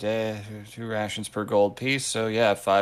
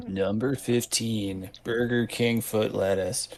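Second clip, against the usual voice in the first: clickbait video narrator; slower than usual. Pretend. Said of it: "That sounds like a YouTube listicle".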